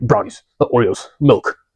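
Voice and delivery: impulsive little monster voice. Retelling own impulses after a productive morning: impulsive little monster voice. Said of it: "The reason why I'm doing this voice".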